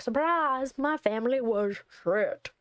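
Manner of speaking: spring it like a sardonic surprise; mock announcement. Player imagining a reply to Eden, mock announcement.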